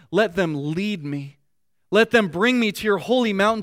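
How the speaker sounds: earnest, rising reading of a psalm; scripture reading. Acted. Pastor reads the psalm to his congregation, earnest. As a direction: read the verse as a heartfelt plea.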